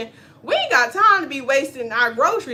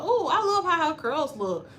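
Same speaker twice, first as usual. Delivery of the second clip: mock admiring; 6 semitones higher than usual. Mocking someone admiring hair.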